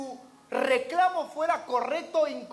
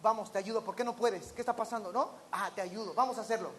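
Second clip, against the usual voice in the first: kind offer of help; 3 semitones lower, 3 dB quieter, faster than usual. Retold or imitated. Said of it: "Y debe haber dicho".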